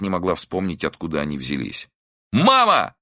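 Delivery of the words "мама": a much higher, louder shout of "Мама"; yell. A narrator's reading. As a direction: yell it out with everything. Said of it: "заорал он ещё раз".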